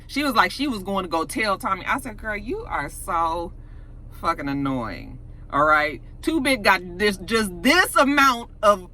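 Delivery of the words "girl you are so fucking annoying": slow, drawn-out exasperation; exasperated. Real, not acted. Viewer talking back to an annoying character, exasperated. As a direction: space it out wearily, dropping at the end.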